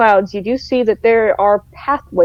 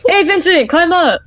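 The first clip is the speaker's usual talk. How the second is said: high, bright call upward; 8 semitones higher than usual. Acted. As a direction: call down to him. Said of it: "you're like".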